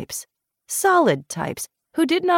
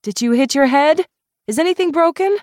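high, loud and urgent; alarmed demand; 10 semitones higher, 6 dB louder than usual. Acted. Caro checks the fallen drunk Julian, urgent high demand. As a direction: fire the questions at him, worried. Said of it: "Caro demanded".

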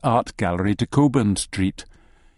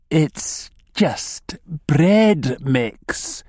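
very slow, higher, every word stretched; hissed warning; 5 semitones higher, much slower than usual. A narrator's reading. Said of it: "he hisses".

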